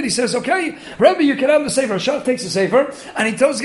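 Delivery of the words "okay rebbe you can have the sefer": higher-pitched eager consent; retold enthusiasm; enthusiastic. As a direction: imitate an eager reply. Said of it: "he was so enthusiastic".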